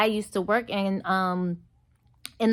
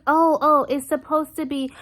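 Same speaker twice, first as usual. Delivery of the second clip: insistent waitress; 7 semitones higher, 4 dB louder than usual. Retold or imitated. Waitress protesting the tip.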